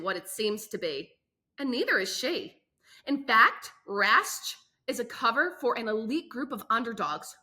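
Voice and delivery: dramatic back-cover read, pausing for effect; book blurb read. A narrator's reading. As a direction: sell the book like a teaser.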